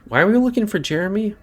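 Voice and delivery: sudden high, fast squeak of alarm; startled squeak. Real, not acted. Player blurts to himself in alarm at a stranger, startled high squeak. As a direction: jump up in pitch, caught off guard and rushing.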